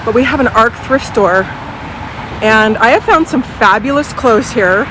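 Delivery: talking through a face mask; muffled by mask. Real, not acted. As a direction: speak muffled behind a mask. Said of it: "I have my mask on if I sound a little muffled".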